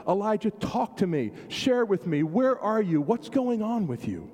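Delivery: really ask, wanting the answer; sincere inquiry. Acted. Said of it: "a true question".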